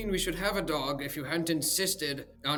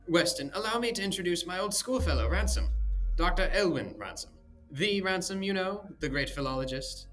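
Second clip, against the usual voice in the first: mock grand introduction; 9 semitones higher, 8 dB louder than usual.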